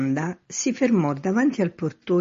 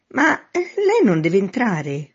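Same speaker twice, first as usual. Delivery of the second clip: high, raised voice; calling down; 6 semitones higher, 5 dB louder, slower than usual. A narrator's reading. Man at window questions man in street, calling down. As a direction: call a puzzled question down.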